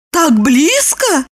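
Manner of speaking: high, slow surprise; surprised. A narrator's reading. Lipochka surprised at Roman. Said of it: "удивилась она".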